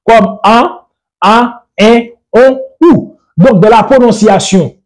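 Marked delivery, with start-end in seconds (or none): 0.4-2.9 "A, A, E, O, U" said as nasal vowels. Shown as a demonstration. Teacher demonstrating Fongbe vowels to learners, nasal vowels. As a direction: sound each of "A, A, E, O, U" through the nose, separately. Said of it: "doivent prononcer telles que des voyelles nasales".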